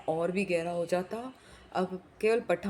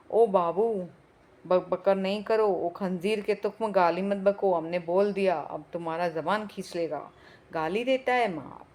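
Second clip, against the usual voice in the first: angry Pathan threat; 3 dB louder than usual. Acted.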